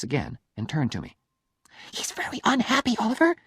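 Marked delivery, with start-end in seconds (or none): 1.9-3.3 very high, distressed wife's appeal; tearful pleading. Acted. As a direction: plead while fighting back tears. She was trying not to cry.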